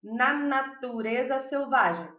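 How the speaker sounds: slow, measured "Na Natureza Selvagem"; title said deliberately. Shown as a demonstration. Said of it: "um filme que chama assim".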